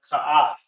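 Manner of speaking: "ka'af" as kah-AHF; pronounced "ka'af". Shown as a demonstration. Teacher gives the word to repeat, sounding out "ka'af". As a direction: model "ka'af" as two syllables. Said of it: "It's pronounced".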